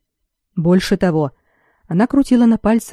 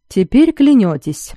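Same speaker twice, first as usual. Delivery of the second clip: bitterly thrown out, slow, higher; 5 semitones higher, 4 dB louder, slower than usual. A narrator's reading. Betrayed lord reproaching the man who lied, bitter. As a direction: fling it out with bitterness. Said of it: "с горечью бросил он".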